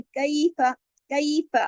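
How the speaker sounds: कैफा with the ai glided, not flat; curving lean ya. Shown as a demonstration. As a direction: bend the voice through कैफा. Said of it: "कई मोड़ पैदा करेंगे आवाज में". (कैफा में आवाज में मोड़)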